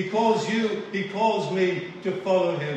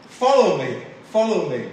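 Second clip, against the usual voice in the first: calling command; 6 dB louder than usual. Retold or imitated. Quotes Jesus calling the disciples.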